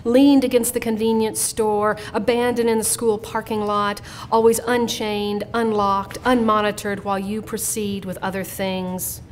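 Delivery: measured poem reading, phrase by phrase; poetry reading. Real, not acted. Poet reads her instructions to her sons, measured poetry reading. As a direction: read it as a poem, lingering on the lists.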